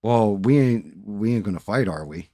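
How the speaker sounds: imitating the manager asking nervously. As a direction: play him scared and backing down. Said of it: "I was like".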